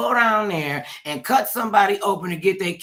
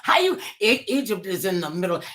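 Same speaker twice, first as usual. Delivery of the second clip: exasperated; 5 semitones higher than usual. Retold or imitated. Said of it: "I'm like".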